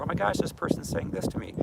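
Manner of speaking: put-on high, startled child's voice; a little kid reliving something scary; frightened child. Triggered alter voiced as a startled young child. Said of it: "triggered into that little girl".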